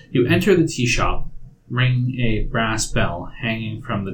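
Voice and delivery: read-aloud scene description; game master's scene setting. Acted. Game master describes the tea shop to players, measured narration.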